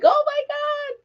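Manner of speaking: very high, awed exclamation; amazed gasp. Retold or imitated. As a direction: imitate the stunned traffic guy. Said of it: "And he was like".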